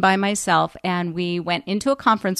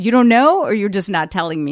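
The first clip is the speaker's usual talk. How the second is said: louder, pushing accusation; retold confrontation; 7 dB louder than usual. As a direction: press him hard for the truth. Confronting producer about being fired.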